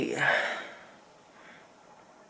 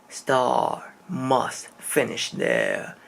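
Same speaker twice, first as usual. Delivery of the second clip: calm voice; 3 semitones lower, much slower than usual. Retold or imitated. Retelling a mysterious voice heard while half asleep, calm and slow. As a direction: recite it calmly, word by drawn-out word. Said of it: "It's just very calm".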